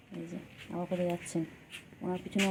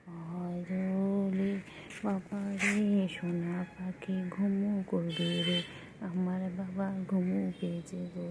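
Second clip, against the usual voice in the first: very slow drawn-out lulling call; slower than usual. Real, not acted. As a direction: coax the pet to sleep, slowly. Lulling pet to sleep. (ধীরে ধীরে ঘুম পাড়ানো সুরে)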